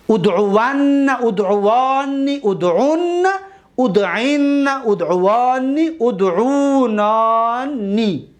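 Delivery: slow, sing-song run of the six forms; paradigm recitation. Shown as a demonstration. Teacher reviewing all six forms with the class, chanted. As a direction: chant them in one go for repetition. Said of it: "یک بار دیگر یک جای بگیم".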